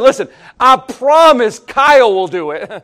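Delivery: laughing as she volunteers him; wife laughing as she passes the job to Kyle; laughing quote. Retold or imitated. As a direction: promise through a laugh. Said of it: "I said".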